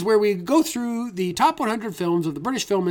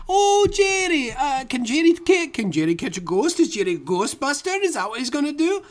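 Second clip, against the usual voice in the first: mocking Jerry; 6 semitones higher than usual. Mocking the ghost.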